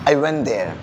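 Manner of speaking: "I went there" joined without a gap; linked words. Shown as a demonstration. Teacher drills the class, "I went there" linked. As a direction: let went melt into there. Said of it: "this is called word connection".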